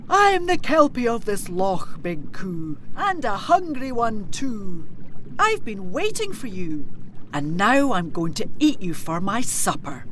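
hungry lake monster, gloating; sinister kelpie. Acted. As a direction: purr the threat like a monster. Kelpie voice held for lines.

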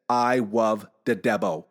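"love the Debo" with L as W, slow and low: "wuv de debbo"; speech impediment. Retold or imitated. Four-year-old confessing to his dad, "love" lisped as "wuv". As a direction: say "love" as "wuv" and "Debo" like a small child's "devil". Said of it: "I'll say it the way he said it".

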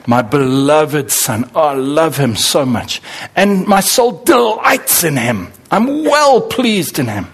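slow and tender, rising with delight; loving God the Father. Retold or imitated. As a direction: savour each word like a proud father. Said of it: "This is what God was saying".

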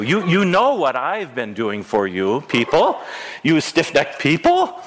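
a hint of a booming, bantering God; lightly voiced God teasing his people; God's voice. Pastor voices God bantering with his stiff-necked people, mock challenge. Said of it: "It's like God saying".

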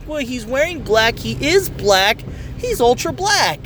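put-on slow, matter-of-fact kid logic; kid explaining. Son explains his logic to dad, slow and certain. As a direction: explain it like it's obvious. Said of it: "And he goes".

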